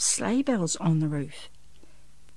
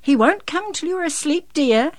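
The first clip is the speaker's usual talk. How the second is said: high, louder motherly lilt; smiling mother; 10 semitones higher, 6 dB louder than usual. A narrator's reading. Mother answers her son about Santa, smiling. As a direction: reassure a child with a smile. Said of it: "Mummy replied with a smile".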